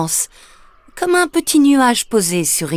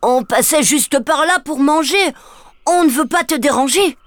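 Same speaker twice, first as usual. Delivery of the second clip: higher, sheepish little ogre apology; embarrassed; 7 semitones higher than usual. Acted. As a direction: say sorry awkwardly. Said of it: "embêté". (petit ogre embêté qui s'excuse)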